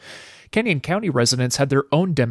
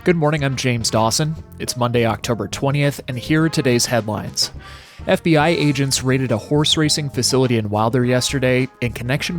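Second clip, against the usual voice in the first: crisp radio headline read; news reader. Acted. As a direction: read it like a morning newscast. Host reads the headlines.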